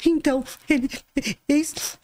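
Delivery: mock sobbing, broken off between gasps; imitated crying. Neighbour tearfully trying to explain about her husband, imitated sobbing. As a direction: imitate someone too tearful to finish a word. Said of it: "E ela tava assim, chorando".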